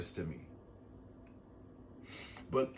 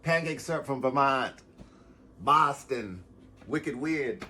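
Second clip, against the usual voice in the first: Boston accent; 2 semitones higher than usual. Shown as a demonstration. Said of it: "I sounded like I was from fucking Rhode Island".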